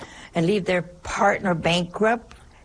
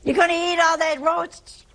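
much higher, pushy dinner question; mock holler; 10 semitones higher than usual. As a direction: needle your sister about the roast.

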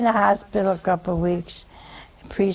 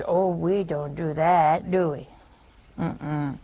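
mock innocent; 3 semitones lower than usual. Ironic self-excuse quoted.

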